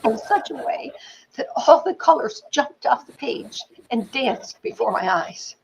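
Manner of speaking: half-whispered, slow and awed; hushed wonder. Retold or imitated. Student recalling her childhood to class, hushed wonder. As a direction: hush it like a precious memory. Retold tearful memory of student.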